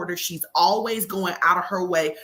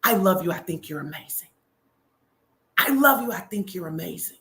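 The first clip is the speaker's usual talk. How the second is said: tender whisper-soft. Retold or imitated. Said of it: "I just go".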